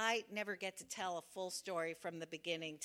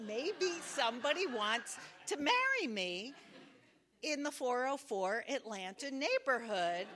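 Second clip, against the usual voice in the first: dreamy, rising hope, louder; daydreaming; 4 dB louder than usual. Retold or imitated. Imagining a secret admirer, dreamy hopeful excitement. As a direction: swept up in a romantic fantasy.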